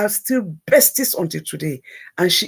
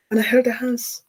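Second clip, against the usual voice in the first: whisper; 4 semitones higher than usual. Real, not acted. Tender moment, whispered.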